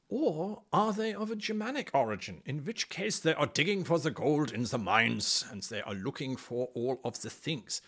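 hammed-up German-accented dwarf; mock German accent. Host joking about Germanic dwarves, mock German accent. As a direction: put on a comic German accent. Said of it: "most of the Germanic-speaking people".

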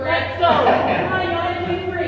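high, carrying call from a distance; calling from far away. Real, not acted. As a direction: call out across the arena. Calling to Sophia across arena.

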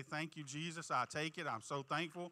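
lightly voiced, grateful; a touch of humble gratitude; grateful thanks. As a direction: say it as sincere thanks. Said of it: "be thankful and say".

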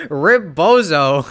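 slow, loud, cackling through the words; laughing mockery. Real, not acted. Streamer mocking the dreamer, laughing, slow and loud. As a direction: laugh it out as a taunt.

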